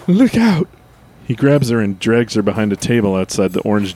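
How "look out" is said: put-on old prospector. Sudden warning.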